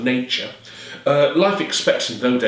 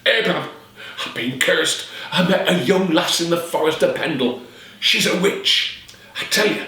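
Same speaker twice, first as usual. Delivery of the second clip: put-on frightened old man; 6 semitones higher than usual. Cursed father pleading to son.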